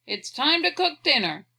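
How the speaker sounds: put-on high, loud call to the kids; hollered. A narrator's reading. Father calling his children to cook dinner, hollering. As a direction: holler it through the house. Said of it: "peeled off his boots and hollered".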